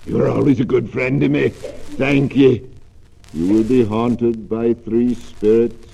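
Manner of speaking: grave ghost delivering a warning; ghostly warning. Acted. Ghost warns Scrooge.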